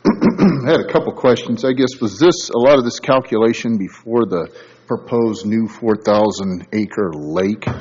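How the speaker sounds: words dulled behind an N95; muffled by a mask. Real, not acted. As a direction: speak through a face mask, muffled. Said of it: "hear me through my N ninety-five mask".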